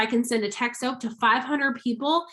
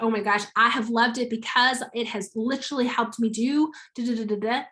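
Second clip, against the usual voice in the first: excited. Shown as a demonstration. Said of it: "Your energy, your excitement".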